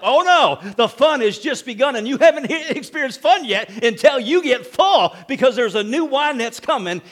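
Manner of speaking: preacher laughing with delight; laughing joy. Real, not acted. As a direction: exult with a laugh.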